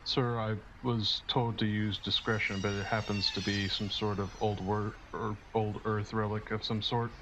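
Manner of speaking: flat monotone delivery. Acted. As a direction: drone it with no tune. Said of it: "his monotone voice".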